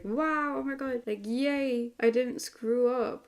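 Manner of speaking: high, giddy mock relief; relieved cheer. Laura cheering that she didn't screw up, high and giddy. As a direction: squeal it like she got away with it.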